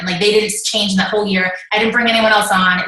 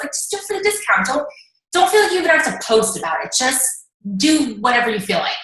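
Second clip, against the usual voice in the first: coaxing friend; 4 semitones higher than usual. Retold or imitated. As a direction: sweet-talk her into staying, a touch fast. Friend coaxing her not to quit.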